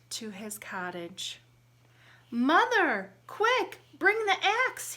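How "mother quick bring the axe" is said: high, loud urgent shout. Acted. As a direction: yell for help in a hurry. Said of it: "he shouted".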